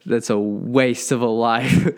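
mild mock fired-up, drawn out slowly; fired-up preacher. Vlogger retelling a famous sermon to viewers, mildly fired up. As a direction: lightly imitate a fired-up preacher, stretching the words slowly. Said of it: "he gets so fired up".

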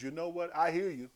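a stern prophet reading the crowd its rules; John laying down the law. Retold or imitated. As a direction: preach each rule at them. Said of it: "He said".

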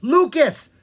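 loud, high warning shout; forceful shout. A narrator's reading. Bard warns the prince of danger, shouting with force. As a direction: call out with great force. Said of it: "shouted Will with great force".

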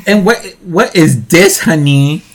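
very high, laughing diva squeal. Retold or imitated. Imitating Piggy out of fountain.

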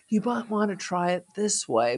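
a hint of a crazy Irish accent. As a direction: lightly give the director's note in crazy Irish. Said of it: "but in this crazy Irish accent".

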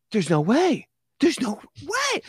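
high, slowing disbelief; hardly believe it. Retold or imitated. Narrator stunned at the fake move, high and slow.

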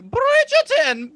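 high, loud, slow swooning shout of the name; gushing hype. Retold or imitated. Fans gushing over the show's title, drawn-out excited squeal. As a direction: draw out "Bridgerton" like a thrilled fan. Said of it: "we would all be like".

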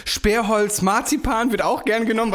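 drawn-out, sing-song showman; slow theatrical voice. Retold or imitated. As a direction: stretch it like a stage magician. Quoting Siegfried and Roy sketch.

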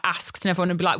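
northern asked with a short flat a; northern accent. Retold or imitated. Imagining a northern cast member singing, northern accent. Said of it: "someone with a northern accent doing it".

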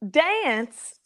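Dance drawn out as "day-ance"; Dance with a broken, drawled vowel; insistent dance pronunciation. Shown as a demonstration. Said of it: "must always be dance".

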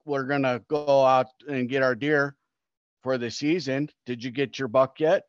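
lightly put-on Minnesota-Wisconsin accent; mock Wisconsin-Minnesota lilt; imitated Wisconsin accent. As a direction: do a neighborly Upper Midwest hunter's accent. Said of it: "that's Wisconsin, Minnesota, and they're like".

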